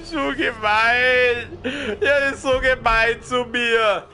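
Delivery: high, slow whiny complaint; whiny child voice. Pretend. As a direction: whine like a wronged little kid. Whining at game enemy.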